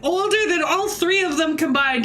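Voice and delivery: laughing mock despair. Real, not acted. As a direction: laugh through a fake meltdown.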